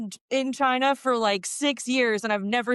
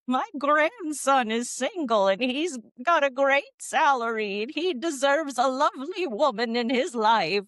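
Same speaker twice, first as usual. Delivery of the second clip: a hint of a doting old granny; old lady voice; 4 semitones higher than usual. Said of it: "I love your old lady voice".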